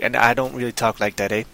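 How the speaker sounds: light stereotype Canadian accent with "eh"; a hint of put-on Canadian talk; mock Canadian accent. Shown as a demonstration. Host showing stereotype talk, light mock Canadian accent. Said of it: "what people think is Canadian style talk".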